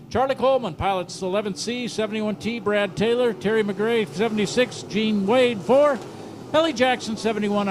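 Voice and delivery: rushing the list, out of breath; breathless rapid roll call. Real, not acted. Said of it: "I'm out of breath".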